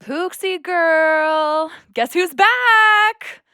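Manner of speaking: slow, sing-song call to a pet; calling the dog. Acted. Rachel calling for her dog Pooks, slow sing-song call. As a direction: coax the dog out, drawn out.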